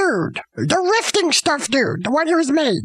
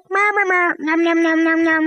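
mock munching. Frank eating the saxophone dude.

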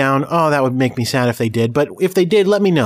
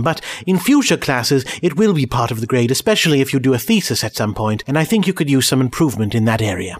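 reading advisor's letter. Acted.

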